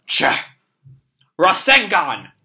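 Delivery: attack shout. Acted. Konohamaru attacks.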